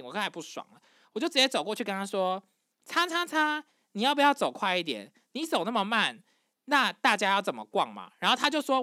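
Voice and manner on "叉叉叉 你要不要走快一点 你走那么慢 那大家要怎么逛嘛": fed-up retold confrontation, slightly raised pitch; retold annoyance. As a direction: act out an irritated telling-off. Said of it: "我就是不开心， 我刚才不爽了". (不爽地质问，转述)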